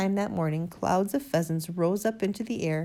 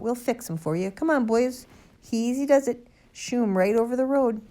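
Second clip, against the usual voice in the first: high, loud rallying calls; crying out; 6 semitones higher, 5 dB louder than usual. A narrator's reading. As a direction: call the boys into action. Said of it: "Sergeant Samways cried out".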